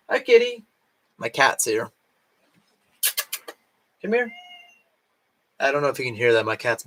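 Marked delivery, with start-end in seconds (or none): 0.1-0.6 high, sing-song pet greeting. Real, not acted. Greeting her cat. 4.0-4.3 high, soft coaxing call; calling the cat. Real, not acted. Calling her cat softly.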